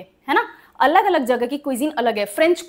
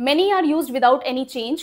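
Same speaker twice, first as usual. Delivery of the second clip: slow teacher statement; much slower than usual. Shown as a demonstration. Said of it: "teacher stating rule".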